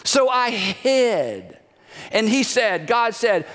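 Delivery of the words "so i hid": slow, small admission; a hint of a guilty child; sheepish confession. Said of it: "He answered".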